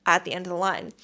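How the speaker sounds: loud, stern telling-off; retold scolding of queue jumpers; firm scolding. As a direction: put the line-cutters in their place. Scolding line-cutters at airport.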